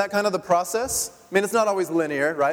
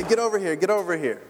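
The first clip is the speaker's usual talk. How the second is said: a light, barely raised call; mild mock yell. Pastor imitating yelling at his son from afar, mild mock yell. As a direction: toss off the call without real force. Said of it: "yell at Nathan from a distance and say".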